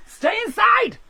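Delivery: mock-dramatic weather reporter; mock reporter warning. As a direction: ham up a storm reporter begging viewers to stay in. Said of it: "saying to everyone".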